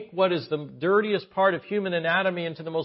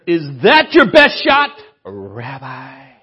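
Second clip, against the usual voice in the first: taunting; 13 dB louder, slower than usual. Acted. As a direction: taunt the rabbi. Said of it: "that's kind of the way he's acting".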